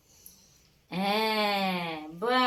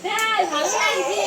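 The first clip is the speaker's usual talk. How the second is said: voicing the pet; 9 semitones higher, 5 dB louder than usual. Owner answers for the pet.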